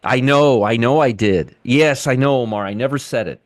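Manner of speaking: mock agreement, dripping sarcasm; sarcastic. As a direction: sarcastically pretend to concede. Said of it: "Wink, wink".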